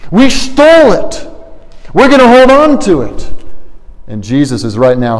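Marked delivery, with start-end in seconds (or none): 0.1-3.3 demons' voice. Acted. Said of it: "the demons ... would have said".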